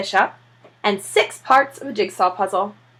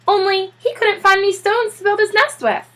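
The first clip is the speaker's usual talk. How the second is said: higher, wry husband voice; musing dad, lightly amused; a dad musing over a penguin's stash; Mister Popper's voice; 11 semitones higher than usual. Acted.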